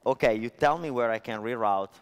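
ordinary talk, nothing marked

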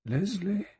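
high, tender questioning call; very gentle. A narrator's reading. Old general speaking his Leslie's name, very gently. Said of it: "He said very gently and softly".

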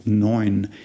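"Neun" said with an "oy" sound; German Neun. Shown as a demonstration. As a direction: say "Neun" like "noyn". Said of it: "the typical cultivated Oi sound".

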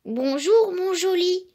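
put-on overjoyed hen calling her baby home; joyful cry. A narrator's reading. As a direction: cry out with delight to the chick. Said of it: "s'écria".

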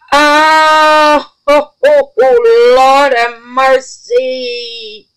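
high, loud, drawn-out awe; overwhelmed. Real, not acted. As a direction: gush over it slowly. Overwhelmed by the jar.

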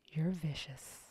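low, soft voicing of his reply; hushed compliment. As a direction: drop down low and quiet, as the man on the phone. Man's hushed compliment, voiced in poem.

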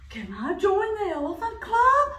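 high, eager duck. Acted. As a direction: ask brightly like a duck. Duck asks elephant.

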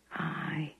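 a soft, hushed Derbyshire "Aye"; gentle murmur; softly. A narrator's reading. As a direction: barely breathe it out. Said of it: "he said softly".

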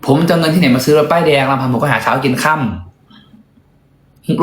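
slow, pleading poor-me line; slow mock pity. To viewers who ask about a new car, slow mock self-pity. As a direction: drag it out slowly, playing the poor guy.

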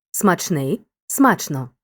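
"Смачний" stressed on ний, then "смачно" on смач; stress moves to first syllable. Shown as a demonstration. Teacher showing adjective turned adverb, stress moving to first syllable. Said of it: "наголос переходить часто на перший склад".

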